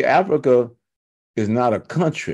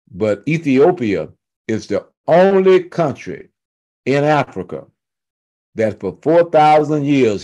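slow, deliberate proclamation with long pauses; emphatic, drawn-out preacher cadence; weighty preaching. Real, not acted. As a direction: let each phrase land before the next. Preacher builds to a revelation.

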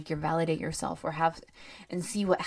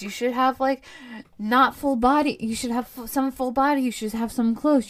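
higher-pitched mock profile advice; mimicking advice; 4 semitones higher, 4 dB louder than usual. Dater mocking online profile tips, exasperated mimicry. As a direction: reel off the dos and don'ts in a higher, pushier voice.

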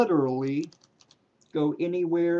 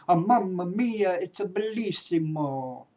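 mock Italian accent; 4 semitones higher than usual. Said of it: "I know I can't do accents".

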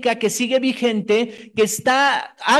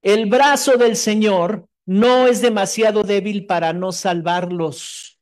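solemn scripture reading; slower than usual. Acted.

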